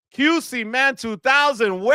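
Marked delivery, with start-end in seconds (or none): 1.7-1.9 celebratory holler. Real, not acted. Streamer hailing a super chat donor, celebratory holler. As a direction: belt it out, holding the first syllable.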